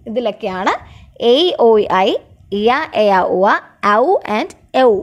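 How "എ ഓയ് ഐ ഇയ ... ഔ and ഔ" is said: എ, ഓയ്, ഐ recited in small groups; diphthong recap. Shown as a demonstration. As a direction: run through the gliding vowels from എ to ഔ in a steady rhythm. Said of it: "sound വരുന്നത്".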